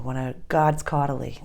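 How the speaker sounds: put-on light Boston accent, dropped r. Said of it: "in my Boston accent".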